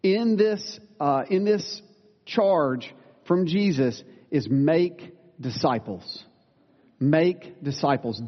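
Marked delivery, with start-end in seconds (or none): 2.2-8.2 slow, weighted "make disciples" with each word leaned on; deliberate emphasis on "make disciples"; stress on MAKE DISCIPLES. Real, not acted. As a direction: drive home "Make disciples" slowly, like the one command that matters. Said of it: "This is the emphasis".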